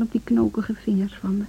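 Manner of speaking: breathy unvoiced whisper to herself; whispered aside. Alone at the piano, whispering to herself. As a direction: mutter the end under her breath. Inner monologue trailing to whisper.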